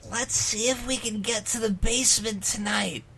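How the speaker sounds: whisper. Acted. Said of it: "he whispered".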